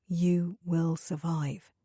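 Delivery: steady him with gentle calm; gently. Acted. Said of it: "she said gently".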